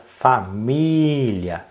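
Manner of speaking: "família" with a very long MÍ; stress on MÍ. Shown as a demonstration. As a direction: stretch the middle of "família", fa-MIIII-lia. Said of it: "faltam acentos nas sílabas". ("família" com MÍ bem alongado)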